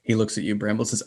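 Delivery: ordinary talk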